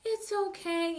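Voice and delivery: mock coaxing. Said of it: "you're coaxing them".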